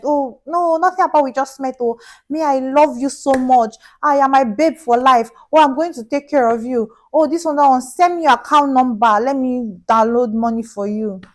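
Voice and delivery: mock smooth talker promising everything; mock sweet-talking scammer. Scammer sweet-talks girlfriend.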